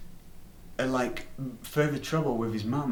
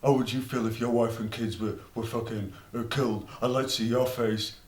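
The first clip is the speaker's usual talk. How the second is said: indignant friend. Retold or imitated. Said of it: "Zhivchik was like".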